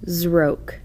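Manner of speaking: Zroke said quickly as one whole word; quick plain Zroke; read quickly. Shown as a demonstration. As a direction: snap out Zroke fast. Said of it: "The nonsense word should be read like this".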